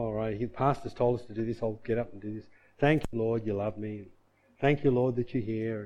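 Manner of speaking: soft, flat, going-through-the-motions praise; half-hearted mumbled praise. Retold or imitated. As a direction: mouth the words without meaning them. Mouthing praise without heart.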